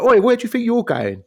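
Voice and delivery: loud, high barking "Oi"; mock guard yelling at a deserter; gruff officer. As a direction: bellow it like a stroppy officer stopping someone. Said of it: "one of the old Rogue One favourites come along and be like".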